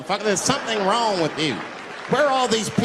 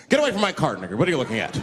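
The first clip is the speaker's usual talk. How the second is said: a touch louder annoyed white shopper; louder irritated shopper snap; lightly voiced shopper; 4 dB louder, much faster than usual. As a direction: shoo him off the cart. White shoppers scold him.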